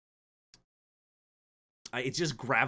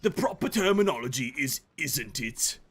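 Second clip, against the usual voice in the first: posh British mock. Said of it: "posh gentleman".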